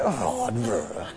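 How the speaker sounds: low, soft groan of letdown; mock groan, sinking away; deflated groan. Listener let down by the preacher's non-answer, mock deflated groan.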